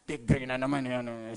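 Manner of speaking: low, soft, slow aside; silent angry thought. Acted. Angry spouse keeping silent, thinking it in a low undertone. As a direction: say it under your breath. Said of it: "Pero sa isip mo naman".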